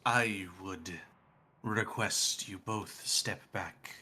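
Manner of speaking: slow, halting god voice; Null. Acted. Death god asks two companions to step back, slow and measured. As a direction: space the words out softly, with long pauses. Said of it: "Noel goes".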